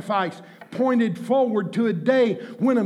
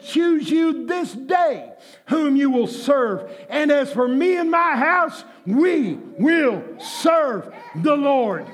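preaching; 2 semitones higher, slower than usual. Acted. Quoting Joshua forcefully.

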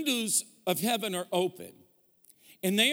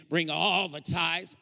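put-on Southern preacher accent; slower than usual. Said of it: "gonna sound like they're from Kentucky".

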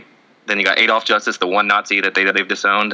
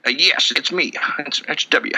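higher-pitched president impression; comic presidential impression, pitched up; George W. Bush; 4 semitones higher than usual. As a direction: put on a folksy Texan president. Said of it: "now I'm George W. Bush".

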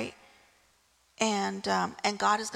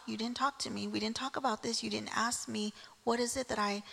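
soft reassurance; 3 dB quieter than usual. Retold or imitated. God's calm reassurance voiced.

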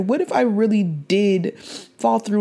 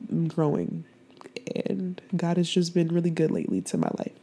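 emotional; 5 dB quieter than usual. Real, not acted. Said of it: "I'm just really emotional".

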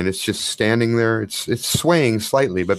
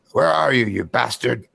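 dark whisper behind you; 2 semitones higher than usual. Acted. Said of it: "the voice from the darkness speaks again".

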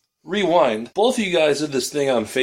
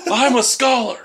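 laughing proud shout; 13 semitones higher, 7 dB louder than usual. Acted. Playful mock boast.

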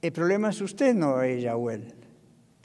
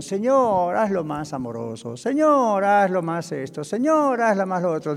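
mock nagging prayer. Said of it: "no le empiece con".

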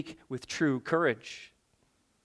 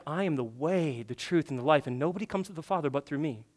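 quiet solemn quote; 2 semitones lower, 6 dB quieter than usual. Retold or imitated. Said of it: "Jesus said".

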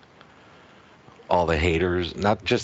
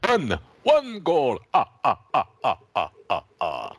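Sesame Street counting; 7 semitones higher than usual. Pretend. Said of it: "Sesame Street style".

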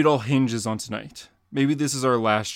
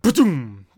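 punch sound; 3 semitones higher, 6 dB louder than usual. Acted.

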